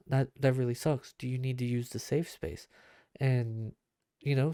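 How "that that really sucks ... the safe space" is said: sympathetic. Shown as a demonstration. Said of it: "I'll be like".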